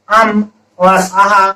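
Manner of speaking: slow demo. Shown as a demonstration. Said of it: "उदाहरण के लिए".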